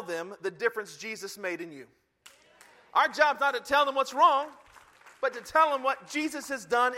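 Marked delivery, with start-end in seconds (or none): 2.9-6.9 louder, higher preaching push; emphatic sermon shout. Real, not acted. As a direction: drive the point home. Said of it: "preacher restates point emphatically".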